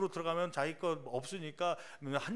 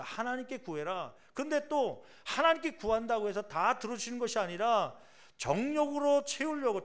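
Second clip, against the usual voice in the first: raised, higher preaching rebuke; preacher scolding the flock, pitch up and louder; fiery preaching; 6 semitones higher, 5 dB louder than usual. Acted. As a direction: drive the rebuke home from the pulpit. Rebuking the congregation from pulpit.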